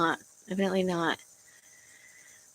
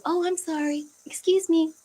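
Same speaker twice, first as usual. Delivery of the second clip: high, timid, overly apologetic voice, a bit higher; mock insecure apology; 8 semitones higher than usual. Vlogger mocking how insecure people are expected to talk, timid. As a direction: imitate a meek stranger saying sorry. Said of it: "to go".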